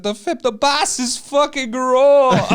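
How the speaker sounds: high, loud, slow mock chef yelling raw; hammed-up chef yelling at a cook; Gordon impression. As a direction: shout it like a raging TV chef. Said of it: "what is it?".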